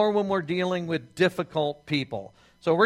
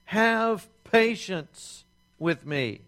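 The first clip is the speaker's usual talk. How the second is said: imploring; 3 semitones higher, much slower than usual. Acted. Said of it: "imploring him".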